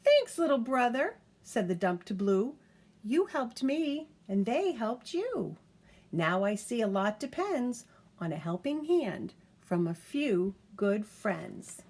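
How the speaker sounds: humble thanks from the big truck; a hint of a chastened truck; grateful dump truck.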